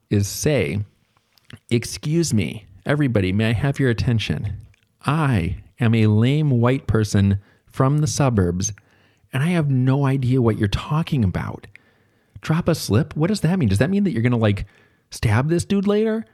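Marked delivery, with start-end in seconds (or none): 1.7-11.7 deliberate, lightly hammed-up confession to a room; mock-formal announcement. Teacher addressing the whole class about slang, mock-formal and self-deprecating. 12.4-16.2 high-pitched, hammed-up incredulous questions; mock bewilderment. Clueless teacher asking the class about slang, hammed-up bewilderment.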